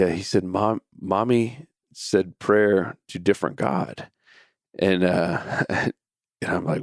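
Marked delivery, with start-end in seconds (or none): 0.4-4.1 slow, lightly voiced small child; pouting little boy. Tearful son telling dad on Mommy, mildly pouty and slow. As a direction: imitate an upset kid reporting slowly. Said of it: "little pout on his face and a little bit of tears".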